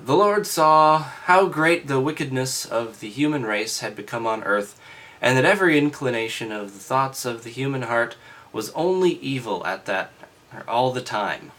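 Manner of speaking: loud, formal reading voice; scripture reading. Acted. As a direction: read it out like a lesson.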